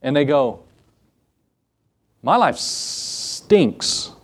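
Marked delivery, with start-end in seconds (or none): 2.2-4.1 slow, breathy whisper of a miserable rich man; mock whispered complaint. Preacher imitating rich people at the top, whispering slowly. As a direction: whisper it like a bored millionaire moaning.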